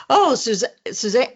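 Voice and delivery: "Suzanne" started and broken off, then soo-ZAN. Retold or imitated. President calling on reporter, stumbling into "Suzanne" as soo-ZAN. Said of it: "about to call me Suzanne".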